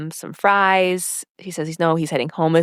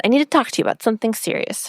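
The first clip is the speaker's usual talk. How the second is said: quick, lightly imitated baby voice; hint at a babyish voice, rushed; a touch of baby talk, quickly; slight baby voice; 3 semitones higher, much faster than usual. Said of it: "It was kind of in her baby voice".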